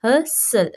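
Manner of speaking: "हसल" split as हस-सल, no T; silent T. Shown as a demonstration. Teacher re-reading for students, silent T in "हसल". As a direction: read "हसल" in two parts without any T. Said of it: "टी की आवाज़ नहीं आ रही".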